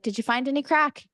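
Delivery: casual Irish question, lifted pitch; Irish accent. Retold or imitated. Mom asking the kids about fun, Irish accent. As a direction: ask it with an Irish lilt. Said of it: "crack in Irish means fun".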